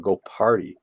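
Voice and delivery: "party" with the R carefully sounded. Shown as a demonstration. Streamer repeats the corrected advice, "party" with clear R. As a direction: pronounce the R in "party". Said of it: "not potty".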